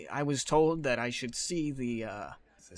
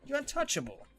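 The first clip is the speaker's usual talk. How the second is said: mocking taunt; 10 semitones higher, 3 dB louder than usual. Character taunting Tessa, much higher.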